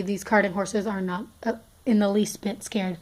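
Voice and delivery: stumbling over the words; halting, stuttering speech. Real, not acted. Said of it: "I'm, like, stuttering a lot".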